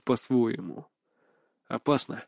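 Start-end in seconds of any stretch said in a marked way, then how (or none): 1.7-2.2 low, soft murmur under the breath; muttering. A narrator's reading. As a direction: mutter it quietly to yourself. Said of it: "пробормотал я". (негромкое бормотание себе под нос)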